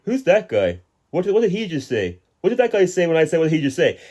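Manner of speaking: mock annoying chatterer. Retelling annoying cinema talker.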